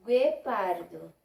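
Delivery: "Guepardo" slow, hard G, U not heard; slow demo. Shown as a demonstration. Teacher shows pupils the silent U. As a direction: say "Guepardo" as ge-par-do. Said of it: "mas eu não ouço o U".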